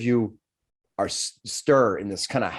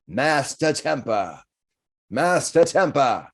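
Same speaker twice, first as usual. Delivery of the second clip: yelling name; 4 semitones higher, slower than usual. Acted. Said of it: "to somebody yelling".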